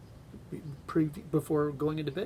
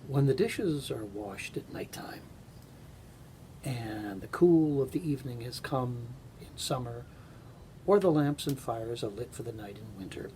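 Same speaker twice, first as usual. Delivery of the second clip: story narration. A narrator's reading. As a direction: read it like a bedtime tale. Reads a Carl Sandburg story aloud.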